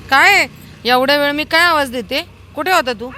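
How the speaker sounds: affectionate loud telling-off; scolding the dog. Real, not acted. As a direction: tell off the dog for being late.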